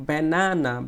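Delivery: "banana" with a long middle NA; middle syllable stressed. Shown as a demonstration. Teacher showing the stressed part, long NA in "banana". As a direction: push the second syllable of "banana". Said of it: "জোরে বলতে হয়েছে".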